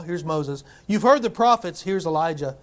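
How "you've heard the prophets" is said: louder, higher proclamation; the Father proclaiming, raised voice. Acted. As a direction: announce it to the crowd. Voicing the Father.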